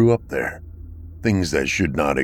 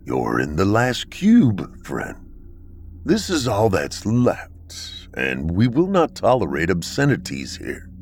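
stern bunker dweller; 2 semitones higher than usual. Acted. Akron's slow, measured replies.

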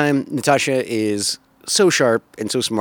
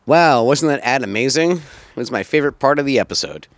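sarcastic. Pretend. Joking about the ad.

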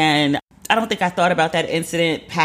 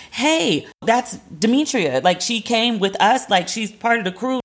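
high, earnest vouching; pleading; 6 semitones higher, slower than usual. Retold or imitated. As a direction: talk the hostess round. Friends vouching to hostess.

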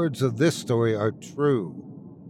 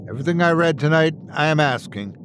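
urgent rallying address; Alistair, earnest podcaster, imploring; 3 semitones higher than usual. Acted. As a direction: appeal to listeners to join the resistance. Alistair exhorts his podcast listeners.

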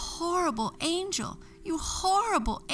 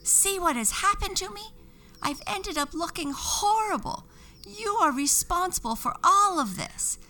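high angry witch rant; shouting with anger; 13 semitones higher than usual. A narrator's reading. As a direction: threaten the angel furiously. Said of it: "shouted with anger".

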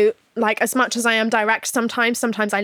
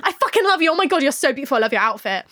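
put-on girls' bathroom gush; 3 semitones higher, faster than usual. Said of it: "girls' bathroom energy".

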